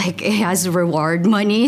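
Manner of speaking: says it through a small real laugh; a sheepish laugh as she admits it; laughing confession. Real, not acted. Student admitting the reward money, laughing sheepishly.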